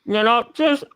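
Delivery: mouthful of marbles, muffled; thick muffled speech around marbles. Real, not acted. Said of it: "sounds like you have marbles in your mouth".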